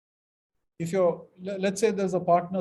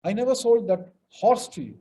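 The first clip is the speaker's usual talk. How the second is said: louder, horse stressed; 3 semitones higher, 6 dB louder than usual. Shown as a demonstration. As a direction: land hard on horse. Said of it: "depending on where the emphasis is".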